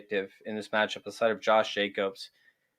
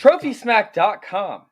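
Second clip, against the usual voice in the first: slow emphatic; 8 semitones higher, 7 dB louder, much slower than usual. Acted.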